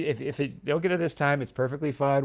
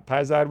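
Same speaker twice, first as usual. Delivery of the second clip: Paisan said "pie-ZAHN", weight on the end; stress on last syllable; 4 dB louder than usual. Shown as a demonstration. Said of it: "accent on the last syllable".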